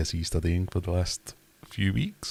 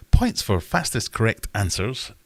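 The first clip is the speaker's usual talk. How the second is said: announcer voice; 3 semitones higher, 4 dB louder than usual. Acted. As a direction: read the rule like a quiz host. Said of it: "gonna need to edit this".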